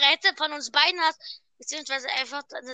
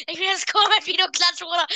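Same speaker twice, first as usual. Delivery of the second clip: laughing; 3 semitones higher than usual. Real, not acted. Laughing at the clap echo.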